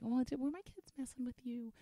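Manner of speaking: high, small, timid mock voice; meek, apologetic. Mocking how a mother might timidly ask strangers, meek and apologetic. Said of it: "I wasn't being meek".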